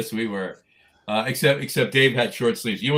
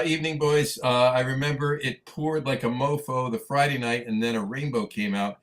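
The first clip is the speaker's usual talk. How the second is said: reading a comment; 4 semitones higher than usual. Retold or imitated. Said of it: "Al Gattullo chimed in".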